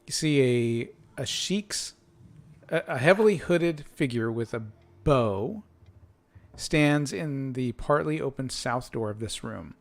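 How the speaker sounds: slow descriptive scene-setting; game master narration. A narrator's reading. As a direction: read the boxed text like a storyteller. GM reads room description.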